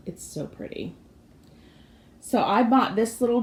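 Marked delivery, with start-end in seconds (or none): 0.1-1.0 whispered. Real, not acted. Admiring aside to camera.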